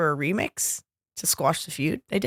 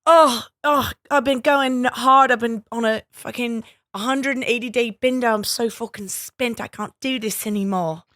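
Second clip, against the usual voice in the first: a hint of a hungover singer; mock exhausted pop star; 2 semitones higher than usual. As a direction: whine like a burnt-out star. Plays worn-out Oak King singer.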